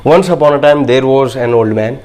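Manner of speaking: slow, clear read-aloud, pausing at the full stop; teacher modelling a pause at the full stop. Shown as a demonstration. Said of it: "full stop जब भी आए यहाँ पर अपन को break देना है".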